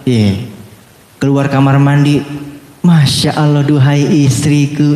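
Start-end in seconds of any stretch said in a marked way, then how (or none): 2.9-4.9 mock-poetic admiration, slowly drawn out; doting husband. Husband admires wife leaving the bathroom, hammed-up adoration.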